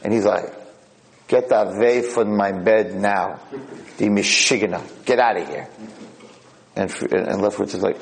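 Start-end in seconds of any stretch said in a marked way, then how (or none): 1.3-5.7 put-on miserable angry old man. Old man sends his new roommate away, miserable and angry. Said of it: "Miserable, angry, miserable guy".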